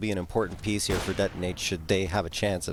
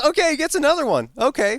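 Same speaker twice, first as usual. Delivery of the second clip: high, loud surprised okay; 7 dB louder than usual. Real, not acted. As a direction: caught off guard by the kill. Surprised high exclamation at kill.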